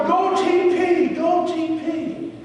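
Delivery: high, loud, stretched cheer; imitated fan holler. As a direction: belt it out high like a fan behind you. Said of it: "this guy behind me keeps going".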